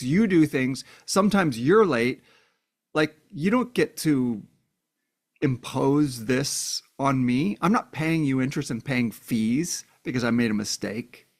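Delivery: mildly heated imitation of a fed-up woman; retold pissed-off retort. Woman standing up to her controlling partner, mildly pissed off. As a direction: act out her indignant pushback, punching the accusations. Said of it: "she gets really pissed".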